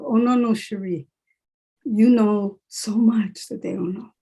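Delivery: firm self-talk, stretching the words; reminding herself. Retold or imitated. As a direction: correct yourself, slowly and emphatically. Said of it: "I have to remind myself".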